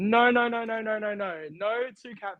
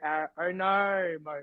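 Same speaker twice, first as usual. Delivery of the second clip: Aussie accent. Shown as a demonstration. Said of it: "because I'm Aussie".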